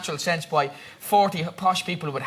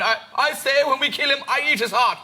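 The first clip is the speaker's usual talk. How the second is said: put-on posh accent; 5 semitones higher than usual. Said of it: "the poshest people in the world".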